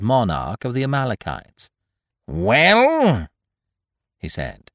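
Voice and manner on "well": a cold, stern single word that shuts the door; loud and high, daring him to speak; a forbidding landlord's Well. A narrator's reading. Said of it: "heard the word spoken in a more forbidding manner".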